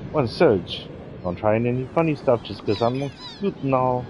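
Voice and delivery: cheeky Australian girl, lightly voiced; a hint of a brash Aussie tomboy; Australian accent. Kid introducing herself to Serge, light Australian accent.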